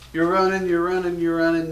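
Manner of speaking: loud, high, driving repeats; urgent scene-setting. Acted. Host acting out fleeing Nazis, loud urgent repetition. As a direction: push each repeat like a soldier on the run.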